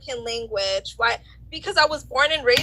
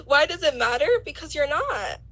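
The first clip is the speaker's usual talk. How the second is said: laughing; 4 semitones higher than usual. Real, not acted. Laughing in disbelief at him.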